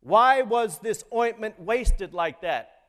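preacher voices the disciples grumbling, slow and indignant; mock indignant. Preacher reads the disciples' complaint, slowly and mildly indignant. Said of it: "said to themselves indignantly".

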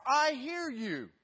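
high, slow voice of God from above; a booming answer from the sky, slow and grand. Acted. God answers the hiker from above, slow and grand. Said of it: "And a voice said".

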